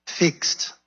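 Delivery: "Fixed" whispered again, short and final; repeated whisper. Shown as a demonstration. Preacher repeating the whispered "Fixed" to the church.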